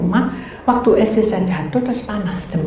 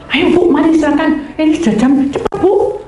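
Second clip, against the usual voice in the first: raised, pressing urging; imitated hurrying; 6 semitones higher, 4 dB louder than usual. Rider tells passenger time is short, imitated hurrying. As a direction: chivvy the passenger along, higher and firmer. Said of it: "aku suruh cepet-cepet".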